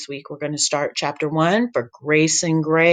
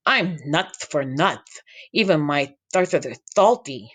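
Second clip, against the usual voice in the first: put-on goofy boy voice. Sammy's voice.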